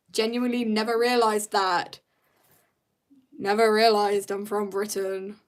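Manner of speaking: deadpan mock gratitude; sarcastic thanks. Streamer answering commenters about being British, with dry sarcasm. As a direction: pretend it is news to you, drily.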